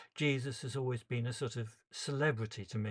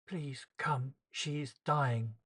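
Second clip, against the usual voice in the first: holding back tears; 3 semitones higher, slower than usual. Acted. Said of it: "trying unsuccessfully not to cry".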